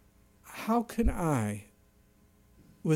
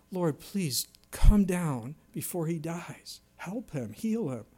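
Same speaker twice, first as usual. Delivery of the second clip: mild anguished plea; slower than usual. Acted. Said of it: "Can you feel this man's pain, his agony".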